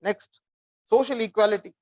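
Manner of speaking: slow, even dictation pace for note-taking. Shown as a demonstration. Teacher dictating a line to students, slow and measured. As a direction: spell it out slowly so they can write. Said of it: "Ah, write down one line".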